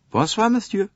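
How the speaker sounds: high, exasperated French conductor; a harried Frenchman pouring out his troubles. Acted. Conductor complains to Poirot about the American lady, exasperated.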